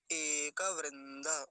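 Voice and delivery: एक वृंद slowly as "e-ka vrin-da"; drawn-out एक वृंद with open endings; Sanskrit model pronunciation. Shown as a demonstration. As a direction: stretch एक वृंद, sounding both final vowels. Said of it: "ऐसा".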